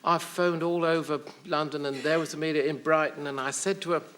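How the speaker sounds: lightly voiced distraught caretaker; a hint of the caretaker's put-on accent; Missus Sparrowhawk. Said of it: "there was Missus Sparrowhawk saying".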